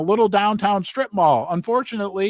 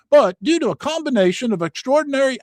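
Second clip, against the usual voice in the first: attempted Australian accent; 8 semitones higher, 4 dB louder, faster than usual. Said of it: "I can't do an Australian accent".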